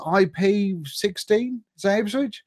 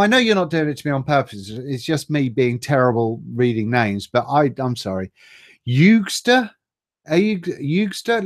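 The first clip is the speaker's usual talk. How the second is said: ordinary delivery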